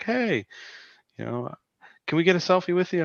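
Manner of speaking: high-pitched fan asking a favor; imitated eager fan. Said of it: "and she's like".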